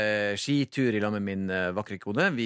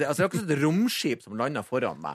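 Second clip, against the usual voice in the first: ordinary talk, nothing marked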